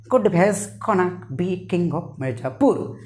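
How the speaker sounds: mock American English; American accent. Shown as a demonstration. Teacher turning a Mirzapur line into American slang, mock American accent. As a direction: put on an American accent for the whole sentence. Demonstrating American-style gonna sentence.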